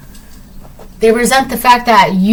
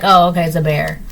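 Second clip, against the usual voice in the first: unbothered shrug; 5 semitones lower, faster than usual. Pretend. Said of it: "you're just like".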